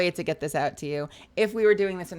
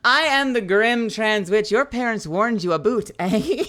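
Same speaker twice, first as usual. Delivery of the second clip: higher, louder proclamation, mock grand; grand villain announcement; 5 semitones higher, 10 dB louder than usual. Streamer hamming up her witch title for the chat. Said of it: "it kinda looks like I said".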